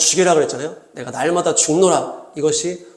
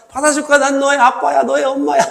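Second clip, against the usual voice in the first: high, coaxing parent voice; hammed-up parental promise, pitched high; reassuring parent; 8 semitones higher than usual. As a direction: talk a hesitant child into trusting you. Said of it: "이렇게 하면서".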